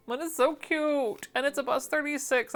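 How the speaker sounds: high cooing over something cute. Real, not acted. Cooing over the moldy pattern.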